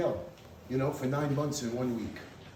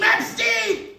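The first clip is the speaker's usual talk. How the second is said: much higher, louder scream of recognition; screamed name; 11 dB louder than usual. Retold or imitated. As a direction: scream his name in shock. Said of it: "he starts to scream".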